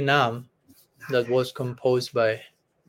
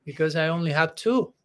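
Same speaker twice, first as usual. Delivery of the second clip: mock greedy plea. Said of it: "Rupa Goswami is greedy in this verse".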